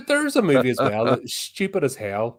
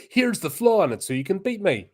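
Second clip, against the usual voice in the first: mustache twirling villain; 6 semitones higher than usual. Retold or imitated. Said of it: "the mustache twirling villain going".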